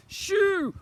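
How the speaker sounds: high, very loud shooing cry; bawling. A narrator's reading. Twin shooing slime away, high loud bawl. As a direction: bawl it to drive them off. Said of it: "bawled Edmund".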